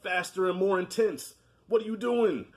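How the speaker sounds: director impression. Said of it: "I'm like George Lucas".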